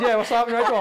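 laughing through words; giggling as you speak. Retold or imitated. Retold greeting, laughing.

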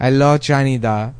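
Canada said as "CHAN-ee-da"; Italianized Canada. Acted. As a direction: make the first sound of Canada a ch. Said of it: "That's how they say it there".

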